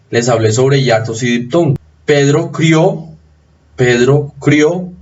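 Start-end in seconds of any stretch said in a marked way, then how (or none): 2.0-4.9 "crió" slowly, as one syllable stressed on the O; stress on final O. Shown as a demonstration. Teacher shows students where the accent falls, stress on the O of "crió". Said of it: "el acento está en la O".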